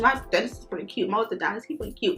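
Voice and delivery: hushed, giggly confession; quiet aside. Real, not acted. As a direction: drop your voice to share a secret. Confiding crush on dentist.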